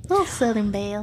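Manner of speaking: playful Southern belle accent. Shown as a demonstration. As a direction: put on a little Southern twang. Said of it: "I can do a little bit of Southern".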